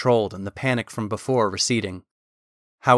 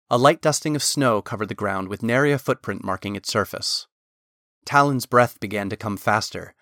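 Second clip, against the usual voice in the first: ordinary delivery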